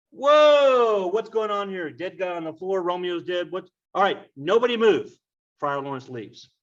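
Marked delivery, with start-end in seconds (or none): 0.1-5.1 much higher and louder whoa, then high flustered commands; a comic cry of alarm that settles into bossy orders; startled shock. Acted. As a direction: Friar Lawrence running in, shocked at the dead bodies, then ordering nobody move. Friar bursts in on bodies.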